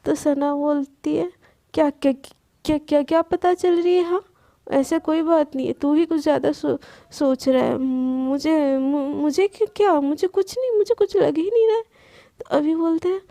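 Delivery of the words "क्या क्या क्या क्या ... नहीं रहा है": flustered denial. Acted. Sana flustered denying to friend.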